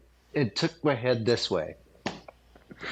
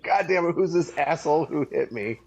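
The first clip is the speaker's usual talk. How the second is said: mock angry outburst, a bit raised; retold anger; 3 semitones higher than usual. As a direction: play the punched guy, half-laughing fury. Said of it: "I went from angry".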